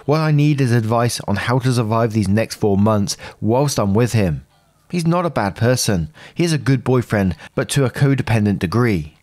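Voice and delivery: evenly paced read-aloud of a personal post; story narration. A narrator's reading. Narrator reading out someone's post about a troubled relationship, story narration. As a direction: read it out as a first-person account.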